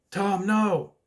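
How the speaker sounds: high mock shout; acted cry of protest. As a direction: call out a retold movie warning. Acts out character's cry in film.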